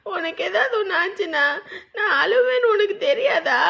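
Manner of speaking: crying out at her brother; tearful scolding. Acted. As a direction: reproach him through tears.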